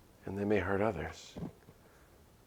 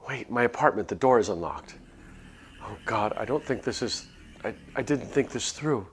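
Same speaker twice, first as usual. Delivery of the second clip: 1 panicked; 3 semitones higher, 4 dB louder than usual. Acted. Panicked realization of danger.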